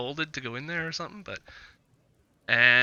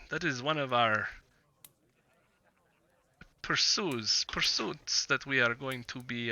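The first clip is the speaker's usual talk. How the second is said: lightly voiced Vistani trader, measured and hesitant; Vistani businessman. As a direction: play a guarded businessman, feeling out each phrase. Game master voices Vistani businessman.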